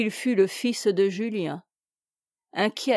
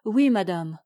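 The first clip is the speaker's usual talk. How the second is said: moaning; 2 semitones lower than usual. A narrator's reading. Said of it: "gémit".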